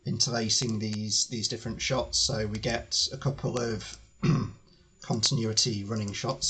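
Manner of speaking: strained, throat-clearing voice; losing voice. Real, not acted. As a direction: talk through a failing voice. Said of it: "Sorry, I'm losing my voice a bit".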